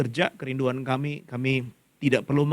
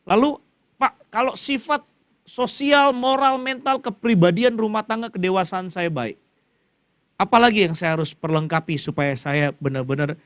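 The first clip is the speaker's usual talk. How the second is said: higher-pitched questioning voice; imagined listener's question; 4 semitones higher, 3 dB louder than usual. Acted. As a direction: ask the pastor in a raised, higher voice. (bertanya kepada pendeta dengan nada tinggi)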